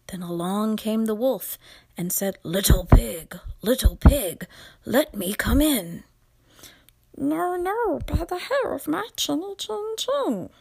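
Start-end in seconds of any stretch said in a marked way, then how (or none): 2.4-6.0 loud, booming wolf at the door. Acted. 7.2-10.5 high, small piggy voice; squeaky little pig voice. Acted. Second pig refusing the wolf.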